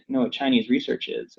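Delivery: hushed conspiratorial whisper; mock whisper. Podcast host joking about Chinese research, mock whisper. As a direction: lean in and whisper it like a secret.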